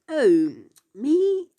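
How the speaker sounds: sudden high surprised yelp. Retold or imitated. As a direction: act caught off guard, voice jumping up. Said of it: "And the guy says".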